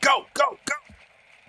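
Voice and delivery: acted-out military bark, pitched very high. Quoting how Johnson gives the order to move, barking like Johnson. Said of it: "Like Johnson like barks it".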